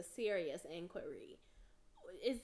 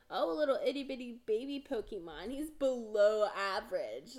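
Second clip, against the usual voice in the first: put-on fast cooing baby talk, a bit louder; 6 dB louder than usual. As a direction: coo the put-down sweetly. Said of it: "They were like".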